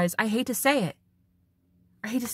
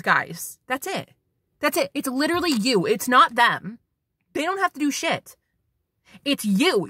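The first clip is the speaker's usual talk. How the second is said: higher, forceful wake-up call; fired-up exhortation; 4 semitones higher, 4 dB louder than usual. Real, not acted. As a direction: exhort them like a rousing coach.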